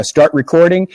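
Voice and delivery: sing-song robot announcement; robotic voice. Retold or imitated. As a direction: say it like a machine prompt. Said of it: "a sing-song robotic voice".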